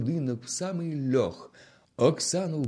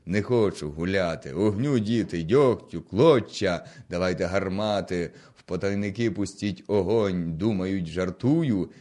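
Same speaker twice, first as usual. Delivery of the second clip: loud orders; 4 dB louder than usual. Acted. Gonta orders fire on the house.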